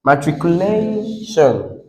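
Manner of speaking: slow "Matriculation", leaning long on LAY; stress on second-last syllable. Shown as a demonstration. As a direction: hold LAY in "Matriculation", then drop softly. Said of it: "what is the correct stress".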